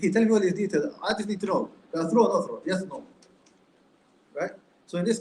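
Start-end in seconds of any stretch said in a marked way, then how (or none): 0.0-3.0 impatient, higher-pitched demand for a short answer; retold impatient interruption, pitched up; mock exasperation. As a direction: imitate a fed-up questioner cutting in. Egyptian questioner cuts off long answer.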